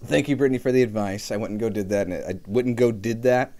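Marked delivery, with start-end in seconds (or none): 1.3-3.5 verbs jumbled, said offhand; tongue-tied slip. Shown as a demonstration. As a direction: stumble over the phrase on purpose. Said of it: "I went and did that".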